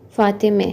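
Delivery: फ़ातिमे with a final "e" sound; Persian pronunciation. Shown as a demonstration. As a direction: end फ़ातिमे on -me, as Persian speakers do. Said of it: "फ़ारसी बोलने वाला इसको बोलेगा". (फ़ातिमे, फ़ारसी अंदाज़ में "ए" पर ख़त्म)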